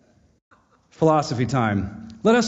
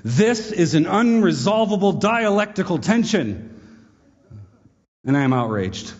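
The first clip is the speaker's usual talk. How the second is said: mock outrage; 5 semitones higher than usual. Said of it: "he exclaims rather emphatically".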